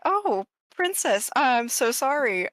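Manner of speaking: slow, high flustered apology; a hint of a nervous courtier; stammering awkward suitor. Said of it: "her face is kinda gonna twinge".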